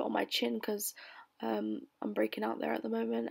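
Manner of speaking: hushed aside; whispering. Real, not acted. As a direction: whisper it like a secret. Aside about breakout.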